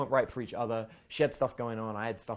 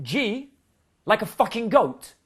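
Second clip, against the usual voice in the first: high, loud mocking disbelief; scoffing at a silly name; mocking sneer; 9 semitones higher, 9 dB louder, slower than usual. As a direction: sneer at the name like it's a joke. Girlfriend mocking the new girl's name.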